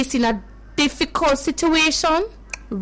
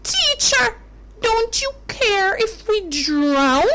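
frightened plea; 5 semitones higher than usual. Acted. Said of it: "Did you hear what the disciple asked".

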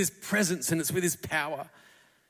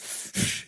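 breathy, unvoiced mock horse snort; a clumsy attempt to snort like a war horse; bad horse snort; 6 dB quieter than usual. Preacher miming a war horse rearing up, with a bad mock snort. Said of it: "That's a bad horse impersonation".

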